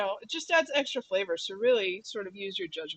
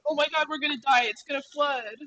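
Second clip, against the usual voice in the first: panicky friends; 7 semitones higher, 7 dB louder than usual. Retold or imitated. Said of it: "NorCal friends are like".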